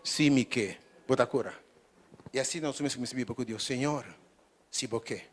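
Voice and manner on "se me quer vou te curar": humble prayer. Shown as a demonstration. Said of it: "era como diz".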